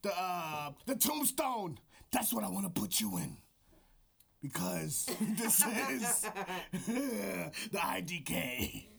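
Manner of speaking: lightly gruff wrestling promo; mild wrestler promo voice. Acted. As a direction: talk like a wrestler into the mic. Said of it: "This is my wrestler voice".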